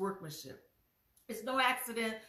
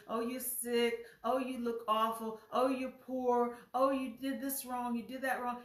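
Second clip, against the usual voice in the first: nagging, a bit louder put-downs; mock self-talk; 4 dB louder than usual. Preacher acting out the congregation's nasty self-talk: nagging put-downs. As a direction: imitate the cruel voice in your head. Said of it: "you saying all those nasty things".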